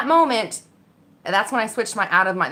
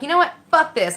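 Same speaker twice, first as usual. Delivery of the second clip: sharp high angry snap, louder; snapping in anger; 9 semitones higher, 5 dB louder than usual. Retold or imitated. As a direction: snap it out, fed up. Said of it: "I just snapped".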